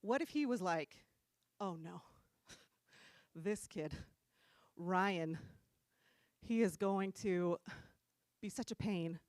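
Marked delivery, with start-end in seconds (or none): 1.6-9.2 lower, slow mock dread; mock dismay. Imagined Jesus on seeing Ryan born, mock dismay. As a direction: sigh it out, dreading this kid.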